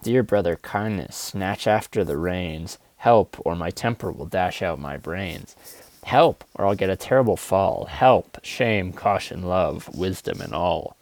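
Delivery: spoken-word poem in a car; poem recital. Acted. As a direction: recite it like a desperate plea. Recites his opening poem.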